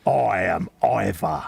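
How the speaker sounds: slow, gruff-ish orc boast, close to his own voice; a hint of an orc warlord introducing himself; lightly voiced orc. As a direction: announce yourself like a slow orc chieftain. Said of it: "Fester's doing his orc voice again".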